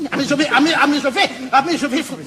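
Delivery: frantic craving. Acted. Craving, losing control, laughing.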